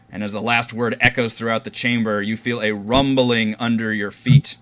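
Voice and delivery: measured scene-setting with pauses; game master narration. Acted. Game master tells players how Orvix falls, measured narration. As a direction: describe the action deliberately, beat by beat.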